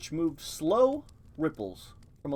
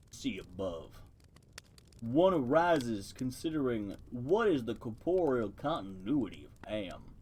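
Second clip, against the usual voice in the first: deep voice; 2 semitones lower than usual. Acted. Turtle in the mud lecturing the mice, lightly deepened voice. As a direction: read it a touch deeper, ponderous and pedantic. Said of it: "give it a deep voice".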